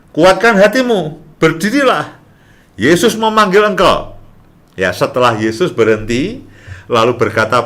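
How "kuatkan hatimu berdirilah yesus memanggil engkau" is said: ajakan bersemangat bernada tinggi; panggilan bersemangat. Retold or imitated. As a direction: serukan kabar baik dengan nada tinggi. Orang memanggil Bartimeus. (ajakan gembira bernada tinggi)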